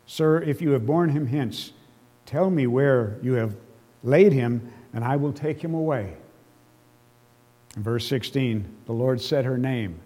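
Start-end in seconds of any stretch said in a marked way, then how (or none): 0.1-6.1 Mary pleads with the gardener through tears; tearful plea. Acted. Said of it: "an emotional squalling of tears".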